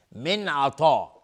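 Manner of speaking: من عطا with the nun said clearly before the ayn, slow; clear izhar. Shown as a demonstration. Teacher showing izhar to the class, slow recitation. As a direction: say the nun of من plainly, no nasal merge. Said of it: "نون ساکن بعدش عین اظهار حلقی".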